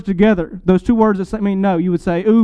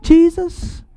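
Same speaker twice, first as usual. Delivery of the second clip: higher, louder, slow astonished question; stunned that the king would stoop; disbelieving Peter; 9 semitones higher, 3 dB louder, slower than usual. Retold or imitated. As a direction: Peter balking at Jesus washing his feet, incredulous. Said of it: "that's why Peter says".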